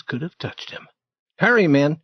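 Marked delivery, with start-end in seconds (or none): 1.4-2.0 louder, pressing order; urgent doctor. Acted. Doctor urging the grave robbers, louder urgent order. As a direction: hurry the men along. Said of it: "he said".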